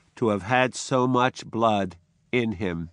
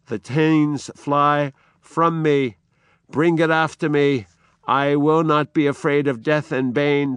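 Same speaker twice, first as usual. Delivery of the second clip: loud, higher call to his servant; defiant outcry; 4 semitones higher, 4 dB louder than usual. Acted. Macbeth crying out to Seyton as thanes flee, defiant outcry. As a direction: shout down his fear. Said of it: "And then he cries out again".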